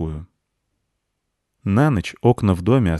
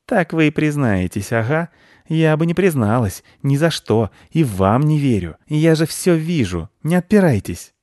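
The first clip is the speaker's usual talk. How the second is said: high, louder excited squirrel; a pushy, suspicious squirrel insisting; 8 semitones higher, 5 dB louder than usual. Acted. Squirrel accuses the children of hiding the nut.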